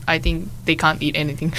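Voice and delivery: said with a laugh breaking through; giggling at her own joke; light amused laugh on the words. Real, not acted. Joke about vegans in Japan.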